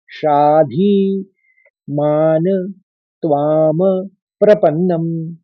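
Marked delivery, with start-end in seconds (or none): 0.1-1.2 "साधी" with a short, light ध, slow. Shown as a demonstration. Teacher corrects the vowel length for students. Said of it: "ध में ह्रस्व पढ़ना पड़ेगा".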